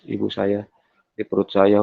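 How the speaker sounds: ordinary delivery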